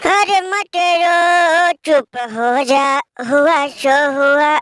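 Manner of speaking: lightly hammed-up, drawn-out soothing; mock consoling. Friend telling weeping uncle not to cry, mock consoling. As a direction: stretch the words as if hushing a weeper.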